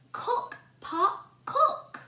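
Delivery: rising playful chant; magic words. Shown as a demonstration. Teacher saying the spell with the class, rising. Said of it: "what are the magic words".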